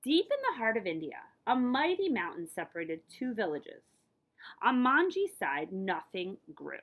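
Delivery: expressive picture-book read-aloud; a librarian's lively story voice. A narrator's reading. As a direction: read it to the kids with wonder.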